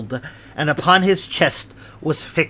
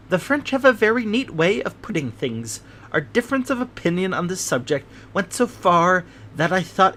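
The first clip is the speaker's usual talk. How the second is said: a touch higher, fussy little man telling his tale; Thaddeus Sholto, lightly voiced; 4 semitones higher than usual. Little man explains the treasure to his guests, lightly voiced. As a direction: lightly play the nervous little host.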